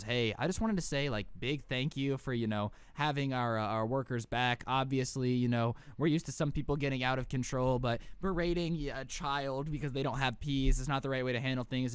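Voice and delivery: a hint of a tired store manager; lightly voiced manager. Manager thanking Grant at checkout, calm and low. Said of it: "he goes".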